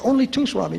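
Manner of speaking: anxious plea. Retold or imitated. Pleading with Swami.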